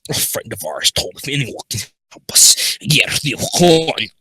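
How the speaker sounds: pirate voice confiding in a hurry; lightly put-on pirate accent. Foxy explaining the blackmail before shutdown, pirate accent. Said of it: "In her pirate's accent".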